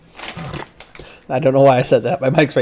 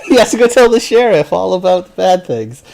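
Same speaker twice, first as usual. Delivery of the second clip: loud, raised storytelling voice; 6 semitones higher, 4 dB louder than usual. Acted. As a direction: call it out loud. Shouted narration.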